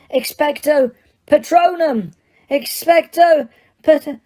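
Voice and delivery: high shout breaking off mid-word; yelling, cut off. Acted. Harry losing to the Dementor, shout cut short. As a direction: yell until the fog takes you. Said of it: "Harry yelled".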